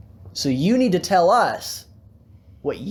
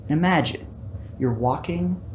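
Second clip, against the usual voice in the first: unhurried relaxation-video delivery; mock ASMR. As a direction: ease the listener into a scene with long pauses. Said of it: "We're gonna do an A S M R video".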